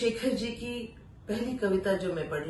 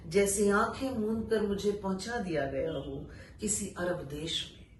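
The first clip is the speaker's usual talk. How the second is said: poetry recitation. Acted. Reciting an exile poem to listeners, solemn recital. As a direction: let each line land, then pause.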